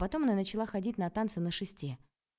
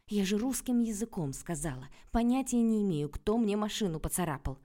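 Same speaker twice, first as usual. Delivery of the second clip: irritated; 4 semitones higher, 5 dB louder than usual. Acted. Heroine irritated.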